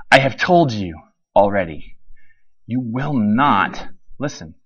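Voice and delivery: slow, tired reply fading down; weary reply. Acted. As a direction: let it sink, exasperated. Repeated, softer and slower.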